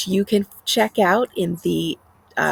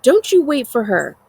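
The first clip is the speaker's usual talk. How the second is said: much louder, higher shouted warning; 6 semitones higher, 7 dB louder than usual. A narrator's reading. Boy shouting a warning to his friend through the bus door. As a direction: yell through the closing door. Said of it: "Ongi shouts through the closing gap".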